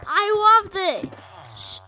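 high, loud, stretched-out joy; delighted exclamation. Real, not acted. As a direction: gush loudly with delight. Delighted by what appears.

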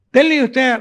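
high, insistent mock yell; retold shouted demand. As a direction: demand it like a pushy beggar. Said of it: "צועק, צועק".

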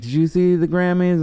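light mimic of a chatty Uber driver; Hollywood lady. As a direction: play the gushing LA type. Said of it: "she was super Hollywoody".

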